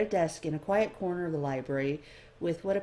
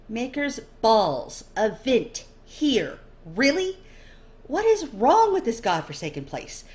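loud, higher, slow and fed up; exasperated cursing; 5 semitones higher, 6 dB louder than usual. Acted. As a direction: curse the whole place under your breath. Inner exasperated outburst.

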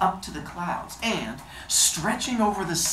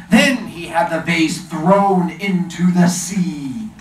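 genie voice; 7 dB louder than usual. Acted. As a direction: tell it loud and grand. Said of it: "my genie voice".

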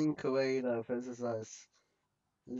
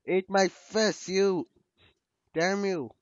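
angry shout; 3 semitones higher, 6 dB louder than usual. Real, not acted. Fighting enemies in game.

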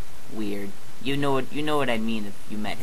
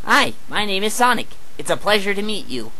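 higher, bright cartoon hedgehog greeting; Sonic voice; 9 semitones higher than usual. Sonic greeting Mario's girlfriend in a high cartoon voice.

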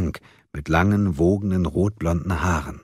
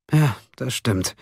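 slow, mild sigh in the voice; 7 semitones higher, slower than usual. A narrator's reading. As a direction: concede it with a drawn-out, understated sigh. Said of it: "seufzte Gabriel". (leicht seufzend, langsam)

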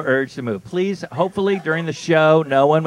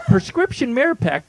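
ad read. Shown as a demonstration. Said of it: "here are the side effects".

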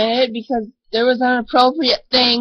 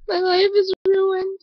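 mock despair; 5 semitones higher, 3 dB quieter than usual. Overdramatic despair.

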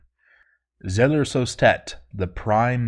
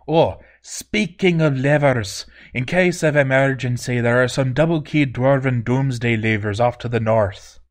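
dwarf voice; 4 semitones higher than usual. Acted. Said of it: "turned, and said".

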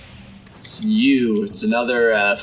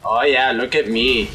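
mock dramatic; 3 semitones lower than usual. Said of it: "big dramatic, right? He's like".

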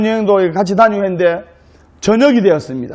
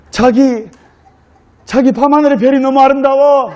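higher-pitched, acted Seoul accent; Seoul bride; 5 semitones higher than usual. Bride admires night sky to her groom in Seoul accent. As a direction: coo in romantic Seoul speech. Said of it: "서울 신부가 서울 신랑에게".

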